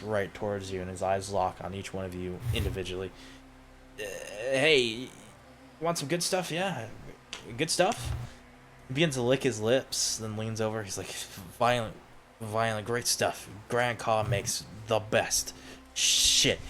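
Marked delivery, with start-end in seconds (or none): 4.0-8.1 higher, hushed, nervy pusher voice; a twitchy addict sidling up to sell; jittery junkie dealer. Acted. 11.6-16.6 a twitchy addict sidling up to sell; jittery junkie dealer. Acted.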